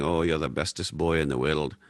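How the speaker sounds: lightly imitated Scottish grandfather; a doting grandpa with a hint of Scottish accent; grandfather's Scottish accent. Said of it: "with his Scottish accent saying".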